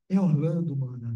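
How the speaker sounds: a hint of the uncle's low voice; imitating the uncle. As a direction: say his name as the uncle's spirit. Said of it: "tô fazendo a de meu tio". (leve imitação da voz do tio)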